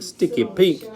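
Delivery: usual speaking voice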